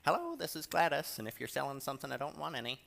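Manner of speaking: lightly voiced phone brush-off to a telemarketer; true colors. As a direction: brush off the telemarketer in a mildly mock huff. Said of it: "if I wanna show my true colors".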